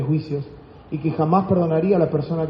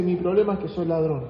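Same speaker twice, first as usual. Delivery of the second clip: retold whisper; 5 dB quieter than usual. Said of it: "me susurra al oído".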